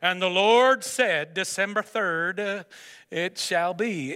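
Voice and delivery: slow, lightly solemn mock decree; mock prophetic voice. Pastor mocking a grand divine calling, slow mock solemnity. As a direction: intone it slowly like a hammed-up prophecy. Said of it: "It's like".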